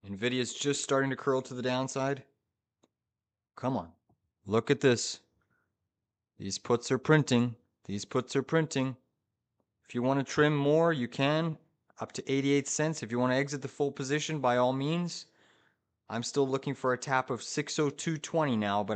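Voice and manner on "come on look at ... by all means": rapid hyped trader panic. Real, not acted. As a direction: hype the chat as profits pour in. Puts printing, hyped live.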